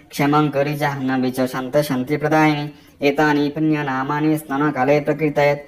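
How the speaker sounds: slow, even Sanskrit mantra chanting; measured devotional recital; mantra recitation. Acted. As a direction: intone the mantra as a prayer. Recites Ganga names.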